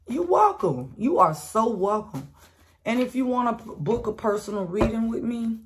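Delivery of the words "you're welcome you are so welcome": sassy you're welcome. Real, not acted. Sassy reply to her own generosity.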